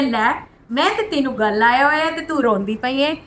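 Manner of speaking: lightly voiced Guruji, amused; Guruji's voice. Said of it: "और गुरुजी कहते हैं". (गुरुजी की हल्की सी आवाज़ में, प्यार से छेड़ते हुए)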